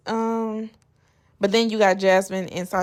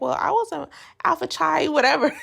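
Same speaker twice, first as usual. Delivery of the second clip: mocking Summer, laughing; 8 semitones higher, faster than usual. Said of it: "She's like".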